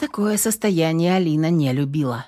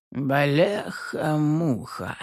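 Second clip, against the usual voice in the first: stunned curse; much slower than usual. A narrator's reading. Fat policeman seeing the body, stunned. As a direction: gape and swear. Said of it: "округлил глаза".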